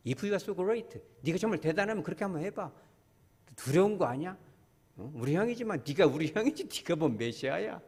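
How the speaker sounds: quick mocking jab from a younger brother; brother's taunt. Younger brother taunting Jesus, quick mock sneer. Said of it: "아, 이러고 있잖아요".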